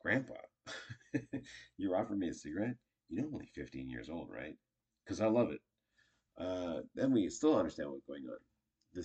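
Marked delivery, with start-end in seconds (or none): 0.0-5.6 friendly call-out, said through a smile. Shown as a demonstration. Grandchild playfully questioning Grandpa's cigarette offer, with a smile. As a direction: tease it lightly, with a little laugh. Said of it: "if you do that with a smile".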